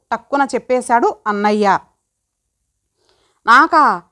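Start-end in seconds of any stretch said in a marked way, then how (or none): 3.5-4.0 shocked. Acted. Girl shocked at marriage news.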